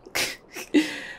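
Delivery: short laugh of disbelief; incredulous laugh. Acted. Partner caught with a jacket, incredulous laugh. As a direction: laugh at their feigned innocence. Amused at partner's feigned innocence.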